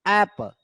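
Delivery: एप्पल with a strong ऐप and a light पल; stress on first syllable. Shown as a demonstration. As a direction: lean on ऐप in एप्पल, barely press पल. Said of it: "ऐप पे आप ज्यादा जोर दे रहे हैं". (एप्पल में ऐप पर ज़ोर, पल पर कम)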